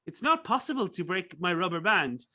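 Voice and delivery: loose imitation of an Alsatian accent; mock Franco-German accent from Alsace. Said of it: "an Alsace accent".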